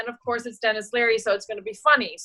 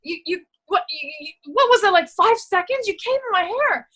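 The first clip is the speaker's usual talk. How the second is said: high-pitched, stammering disbelief; acted indignation, pitched way up; indignant outburst; 8 semitones higher than usual. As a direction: sputter it, climbing much higher in pitch. Acts her scripted line of outrage.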